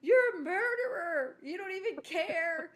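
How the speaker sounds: high, loud, drawn-out mock wail; crying child accusing. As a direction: imitate tearful kids hurling an accusation. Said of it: "they're crying".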